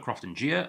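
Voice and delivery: Crofton Gia, ending in two syllables, jee-uh; old pronunciation. Shown as a demonstration. Whisky host recalling how he used to call it, old pronunciation. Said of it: "I used to call it".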